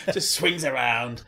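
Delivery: excited. Retold or imitated. Still in the Missy voice.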